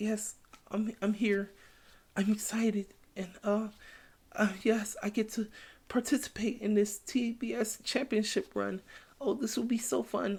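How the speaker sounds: very high, soft voice with no energy. Mocking how a woman sounded joining the championship run, imitating her lackluster delivery. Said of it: "She she sounded like she was like".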